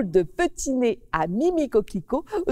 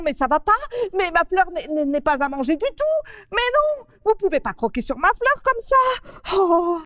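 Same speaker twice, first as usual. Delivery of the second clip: high, shrill-pitched protest, much higher; indignant shooing; 9 semitones higher, 3 dB louder than usual. Acted. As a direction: chase the rabbit off her flower. Mimi shoos the rabbit away.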